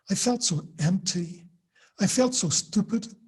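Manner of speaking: light American soap opera accent, lines drawn out. Shown as a demonstration. Lecturer reading soap corpus lines to students, light American accent. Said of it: "this is my American accent".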